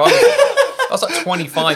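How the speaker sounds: words breaking into real laughter; can't get it out for giggling; laughing through it. Real, not acted. Laughs while telling his age.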